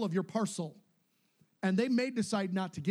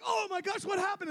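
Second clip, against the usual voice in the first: astonished question; 13 semitones higher than usual. Retold or imitated. Family reacting to story.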